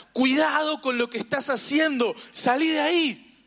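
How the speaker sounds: high, rising warning call; sounding the alert. Acted. Holy Spirit alerting a believer, high urgent warning. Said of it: "a tirarnos la alerta".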